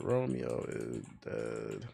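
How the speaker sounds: low, slow trailer narrator; movie trailer voice. Retold or imitated. Echoes the deep trailer narrator.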